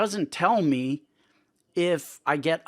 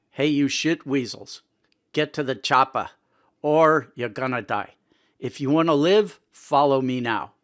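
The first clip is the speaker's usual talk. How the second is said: raised, commanding delivery in own voice; movie-line command in regular voice; 5 dB louder than usual. Shown as a demonstration. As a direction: give the action-hero order without impersonating. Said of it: "I'm gonna speak in my regular voice".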